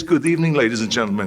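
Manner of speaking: lightly voiced Reg Park giving "Good evening" like an emcee; announcer greeting. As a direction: open the show for the crowd. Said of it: "he says, says".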